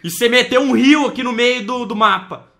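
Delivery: teasing rebuke. Real, not acted. Teasing friend, calling him trouxa.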